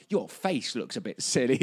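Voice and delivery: dim troll voice; dopey cartoon bellow. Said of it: "the troll pops up with a kind of like".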